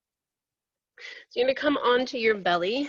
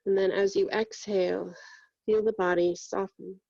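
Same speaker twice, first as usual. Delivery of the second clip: even-pitched meditation voice with long pauses; guided meditation. Real, not acted. Yoga teacher guiding students through breath and body scan, meditative. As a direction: guide them inward steadily, leaving long silences between phrases.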